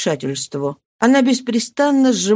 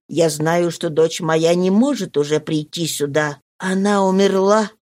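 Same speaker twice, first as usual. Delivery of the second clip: put-on lower, measured old father; lightly voiced old count; 3 semitones lower than usual. The mad count answering his daughter: low and measured. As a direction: speak as a grieving, confused old man.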